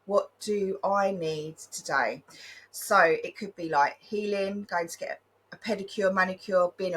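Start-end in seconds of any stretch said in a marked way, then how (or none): 0.0-2.2 slow gentle question. Shown as a demonstration. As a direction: ask it slowly and kindly to yourself. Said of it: "ask yourself, put your hand on your heart".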